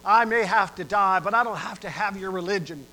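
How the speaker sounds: a condemned man lashing out; livid prisoner. Acted. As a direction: rage at the preacher. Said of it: "he just went livid".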